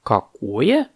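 mildly puzzled question; surprised boa. Acted. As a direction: ask with a touch of surprise. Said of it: "удивился удав".

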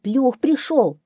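high, loud, slow fox voice; fox answering. A narrator's reading. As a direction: call it out as the fox. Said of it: "отвечает лиса". (голос лисы, высоко и протяжно)

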